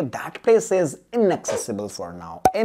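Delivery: slow, careful explanation; slow classroom explanation; slow teaching. Shown as a demonstration. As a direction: spell out the idea slowly for students. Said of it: "तो उसे हम क्या बोलेंगे?".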